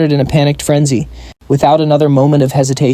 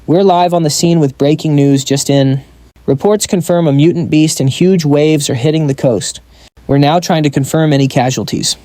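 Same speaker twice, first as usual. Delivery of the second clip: a steady, urgent reporter read; lightly voiced news report; tense news broadcast. A narrator's reading. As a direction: report live from the helicopter. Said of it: "began her tense broadcast".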